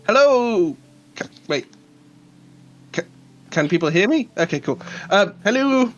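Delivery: talking through a mouthful of meat; words round a bite of food; mouth full. Real, not acted. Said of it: "my mouth's full of meat at the moment".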